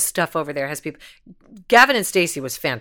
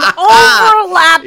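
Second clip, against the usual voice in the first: much higher, louder, slow, laughing; 11 dB louder, slower than usual. Real, not acted. Laughing loudly at the actors' cheating overlap. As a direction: laugh it out loud and high.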